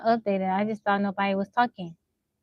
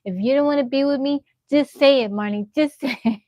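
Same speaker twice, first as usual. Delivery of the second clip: raised, louder retold scolding at Marnie; loud and higher, mock-fed-up parent; mock scolding shout; 3 semitones higher, 4 dB louder than usual. Mother half-yelling at daughter: loud mock scolding.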